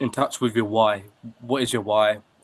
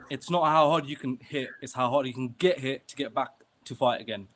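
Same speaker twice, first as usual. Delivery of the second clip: put-on Balboa's line kept in the speaker's own accent; 3 semitones higher than usual. Retrying the Rocky line after botching the impression, own accent. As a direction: own accent, slightly lifted for the film line. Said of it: "I'll do it in my accent".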